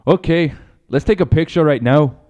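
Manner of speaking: uncertain mock Irish accent; botched Irish brogue drifting toward Scottish; Conor McGregor. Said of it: "I don't know if that's Scottish or Irish".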